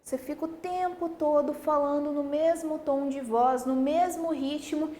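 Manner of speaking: same pitch and rhythm throughout; monotone. Shown as a demonstration. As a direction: drone on in one even tone. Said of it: "falar de um modo monótono".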